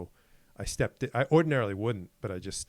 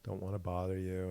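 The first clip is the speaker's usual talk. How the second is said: sweet nice tone; 3 semitones lower than usual. Retold or imitated. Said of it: "that really nice tone".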